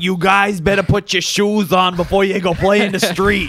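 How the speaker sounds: put-on high, loud, slow scolding in an Italian mother accent; mock Italian mother calling out to her kids. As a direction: nag the kids like an Italian mom. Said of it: "like Jewish Italian mother".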